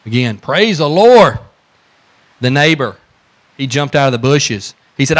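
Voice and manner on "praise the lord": high, loud, slow joyful shout; shouted praise. Retold or imitated. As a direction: stretch it out in triumph. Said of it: "she shouted again".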